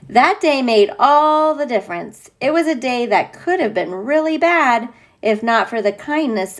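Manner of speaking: put-on reading a picture book aloud to a child; steady storybook telling; story narration. A narrator's reading.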